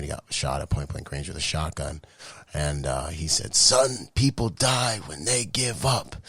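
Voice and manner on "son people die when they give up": lightly voiced dad.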